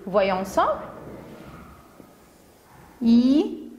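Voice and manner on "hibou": "hibou" as long i, pause, bou; wide gap inside "hibou"; syllable by syllable. Shown as a demonstration. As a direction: count out "hibou" in two drawn-out beats. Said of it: "Deux syllabes".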